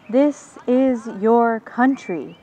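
slow, measured proclamation; grand, drawn-out declaration; exclaiming. Acted. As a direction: announce it slowly to the valleys. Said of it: "he exclaims, as if announcing it to the valleys".

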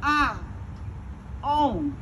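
slow, weighty pause between the words; a hint of the master's cold claim; voicing the old master. Storyteller repeating the master's chilling words, drawn out. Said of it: "and then he said".

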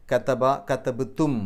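കതബ then കതബ്തും, each syllable drawn out slowly; slow, careful കതബ, കതബ്തും; slow example forms. Shown as a demonstration. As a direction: spell out കതബ്തും slowly, ending on തും. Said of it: "അവിടെ തും എന്നാണ് വന്നത്".

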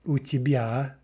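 "у тебя" said carefully in Russian; teacher demo of the phrase; Russian model phrase. Shown as a demonstration. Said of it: "right, informal".

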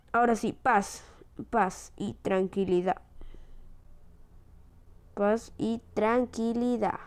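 slow savored words; relieved sigh. Real, not acted. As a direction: let the relief sink in slowly. Relieved at last.

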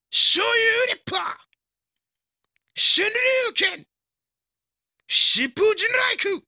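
very high, drawn-out shout; super-move battle cry. Acted. Fighter unleashing special moves on an opponent, long high-pitched shout. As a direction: scream the attack name through the strike.

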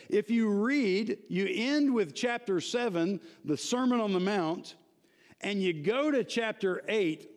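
eager preacher driving the point home; animated preaching. Real, not acted. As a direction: build enthusiasm as you preach the point. Preaches with rising energy.

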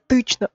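тычно with the dark ы instead of ee; the uncorrected тычно, hard ы; hard vowel version. Shown as a demonstration. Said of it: "It's like almost E".

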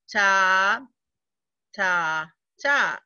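"ta" chanted evenly on each beat; steady beat-by-beat "ta" reading; rhythm syllables. Shown as a demonstration. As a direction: tap out each "ta" like a quarter note. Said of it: "now the third one".

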